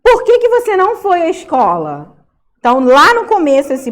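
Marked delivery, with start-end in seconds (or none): 0.0-2.2 questioning someone. Acted. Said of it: "E é tipo assim".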